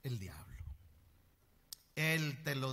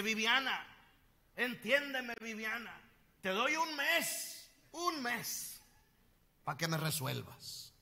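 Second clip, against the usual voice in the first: put-on pleading lovesick old man; 8 semitones higher than usual. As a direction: plead with the painting, voice climbing. Voicing the lovesick widower pleading.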